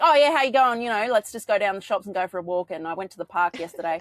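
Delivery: rough Australian bogan talk, run together; bogan accent. Shown as a demonstration. Host showing her non-public-speaking voice, bogan accent. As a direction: slip into casual bogan Australian, bursting out loud then easing. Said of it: "I do talk like that and I sound very bogan".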